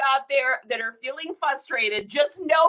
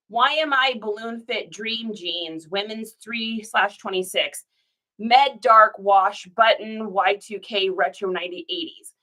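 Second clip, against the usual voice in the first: reading a bad title; 4 semitones lower than usual. Shown as a demonstration. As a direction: read it out like a clunky listing. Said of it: "these ones say".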